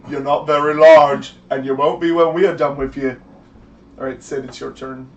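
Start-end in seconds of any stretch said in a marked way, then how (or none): 0.1-3.2 thug retort. Acted. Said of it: "He's like".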